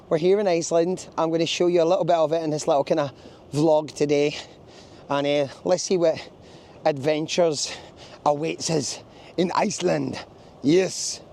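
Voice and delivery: a hint of a bad Viking accent; mock Viking accent. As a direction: slip into a half-hearted Viking accent. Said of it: "Don't know why that accent happened ... It sounded like a Viking".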